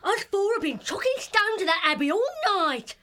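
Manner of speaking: defiant weasel underling in a character voice; grumbling back at the boss; arguing back. Acted. Tired weasel answering back to the chief, defiant. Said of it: "arguing back swiftly".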